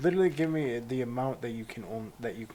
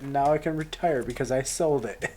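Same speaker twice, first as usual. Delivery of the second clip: excited merchant; 6 semitones higher, 7 dB louder than usual. Retold or imitated. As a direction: gush like a shopkeeper who just got rich. Voices the merchant retiring rich.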